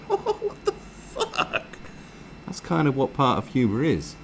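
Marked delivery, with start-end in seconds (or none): 0.1-1.6 very slow, breath-only gasp; hammed-up whispered shock; stunned disbelief. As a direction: stretch every word out in helpless astonishment. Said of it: "you just don't know what else to do".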